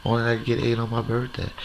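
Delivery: high, coy mock girl voice; a lightly voiced shy lady; mock shy woman. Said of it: "don't be acting shy like".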